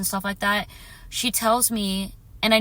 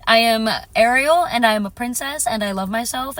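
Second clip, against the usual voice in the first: louder and higher, proudly claiming her name; proud declaration; 3 semitones higher, 6 dB louder than usual. Real, not acted. Declaring to viewers she is Ariel, proud and loud. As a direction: announce yourself like a princess. Reclaiming her joyful self.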